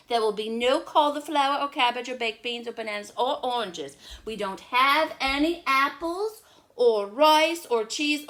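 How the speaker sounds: loud, high teasing reply; big brother. Acted. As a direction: play the sly big brother. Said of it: "And I said".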